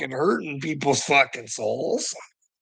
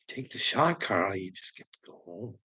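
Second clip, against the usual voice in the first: soft coaxing; 4 semitones lower, 6 dB quieter than usual. Retold or imitated. Doctor coaxing him.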